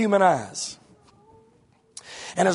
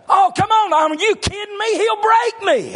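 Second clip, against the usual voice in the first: higher, laughing mock alarm; half-joking plea that he'll be crushed; mock protest; 10 semitones higher than usual. Preacher protests about his big son, mock alarm and laughter.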